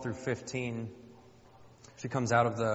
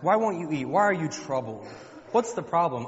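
louder, insistent mock questioning; baffled husband; 4 semitones higher, 6 dB louder than usual. Husband questioning his troubled wife, mock-baffled. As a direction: press her like a clueless husband. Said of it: "Her husband would ask".

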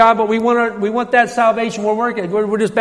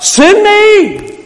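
high ringing shout; 11 semitones higher, 5 dB louder than usual. Acted. Preacher acting Isaiah shouting to God to be sent. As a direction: call it out high to be noticed. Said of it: "he shouts out".

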